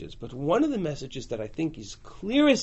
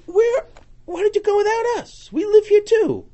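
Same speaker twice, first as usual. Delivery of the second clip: indignant complaint; 13 semitones higher than usual. Acted. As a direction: demand why they were left out. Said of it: "he comes to me and says".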